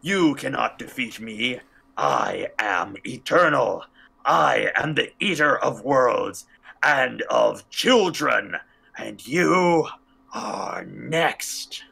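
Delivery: slow otherworldly cosmic menace; a lightly voiced world-eating entity; vast deep cosmic voice. Shown as a demonstration. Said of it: "let me try that again".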